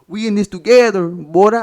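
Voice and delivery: a hint of a sly, chummy friend nudging you; mock Latino buddy voice. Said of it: "jab an elbow into and say".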